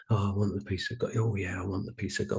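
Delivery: quick, soft, half-hearted mumble; lukewarm wish. Retold or imitated. Mocking a lukewarm prayer, quick soft half-hearted mumble. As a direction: toss it off like you barely mean it. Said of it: "where you're not just going".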